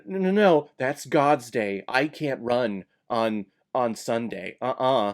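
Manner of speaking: quick protest settling into slow, solemn refusal; mock a devout runner refusing on principle; put-on holy stubbornness; mock pious refusal. Acts out runner refusing Sunday race.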